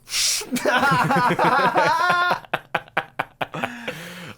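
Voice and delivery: a long burst of high loud laughter. Real, not acted. Cohost cracking up at the joke with a long, loud, high laugh. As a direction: let the laugh explode.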